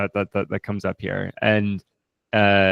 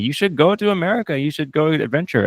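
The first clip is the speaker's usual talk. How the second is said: voicing the stranger; 7 semitones higher than usual. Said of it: "someone was telling me".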